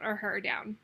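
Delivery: breathy under-the-breath correction; tossed-off whispered correction; whispered aside. Real, not acted. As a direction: whisper it to yourself as a quick fix. Quick self-correcting aside.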